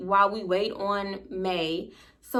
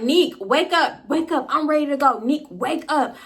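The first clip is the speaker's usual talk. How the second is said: higher, insistent calling to a friend; retold rousing call, slightly raised voice; urgent wake-up call; 5 semitones higher, 3 dB louder than usual. Storyteller calls her sleeping friend to leave, urgent. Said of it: "that's when I start causing a scene".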